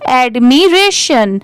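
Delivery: "एडमिरेशन" slowly, as ad, mi, ration; syllable by syllable. Shown as a demonstration. Teacher asks learners to repeat, saying "एडमिरेशन" syllable by syllable. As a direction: lead a repeat of "एडमिरेशन" in separate parts. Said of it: "आप भी मेरे बाद repeat करिए".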